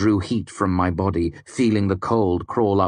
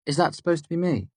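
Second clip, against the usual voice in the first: higher, fast mocking question; flat angry quip; 10 semitones higher, faster than usual. A narrator's reading. Devi mocking the wax doll, flat and angry. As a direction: toss off a reflex joke. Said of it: "Her tone was flat and angry".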